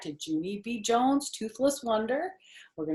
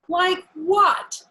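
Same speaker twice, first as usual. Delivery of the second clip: put-on eager child question; 11 semitones higher, 8 dB louder than usual. Junie B demands an answer.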